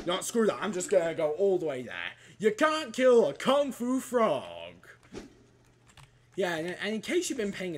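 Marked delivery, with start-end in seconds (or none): 2.4-4.4 proud boast. Pretend. Boasting at enemies.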